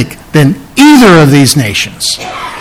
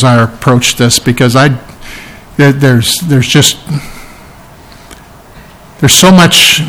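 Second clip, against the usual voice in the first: closing prayer; 2 semitones lower than usual. Acted. Pastor closes in prayer.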